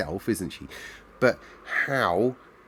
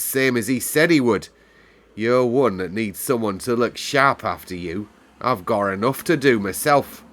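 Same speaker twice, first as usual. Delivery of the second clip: cross housekeeper; 3 semitones higher, 6 dB louder than usual. A narrator's reading. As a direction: shut the child down coldly. Housekeeper scolding Mary.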